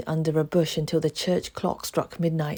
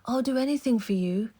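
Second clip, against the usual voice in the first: put-on eager boy; 7 semitones higher, faster than usual. A narrator's reading. Oliver voiced higher.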